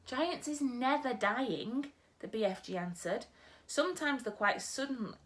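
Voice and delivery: a gentle giant muddling his words; storyteller's BFG. Acted. BFG on dying.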